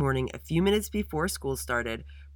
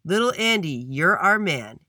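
loud, raised-pitch cheer; 3 semitones higher, 7 dB louder than usual. A narrator's reading. Friends lifting Andy up in celebration, cheering. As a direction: chant it loudly like a cheer. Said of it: "and cheered".

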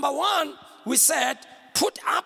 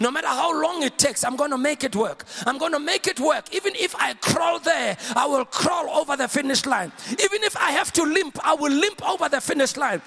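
driving, emphatic sermon cadence; rousing preaching. Real, not acted. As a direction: build the declarations with rising fervour. Preaches with rising force.

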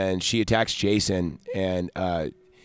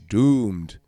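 DOOMED said a little fuller and longer; more emphasis. Acted. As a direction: lean mildly on "Doomed". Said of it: "More, more emphasis".

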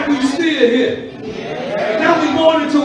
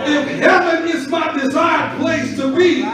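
rising shouted preaching; booming motivational speech. Acted. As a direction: build it to a shout.

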